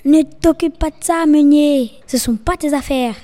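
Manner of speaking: threatening wolf. Acted.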